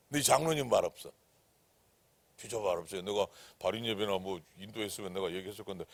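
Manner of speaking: ordinary talk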